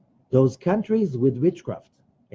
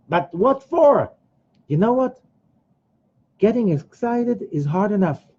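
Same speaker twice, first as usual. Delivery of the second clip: hammed-up skeptical whine; whiny objection; 7 semitones higher than usual. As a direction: drag it out like a sulky doubter. Excuse-making listener, acted.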